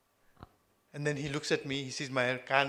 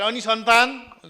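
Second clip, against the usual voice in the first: high, loud nosy question from an elder; elder leans in and asks about a grandchild; prying elder; 9 semitones higher, 10 dB louder, faster than usual. Retold or imitated. Relative at tika asks the couple about children, raised and prying.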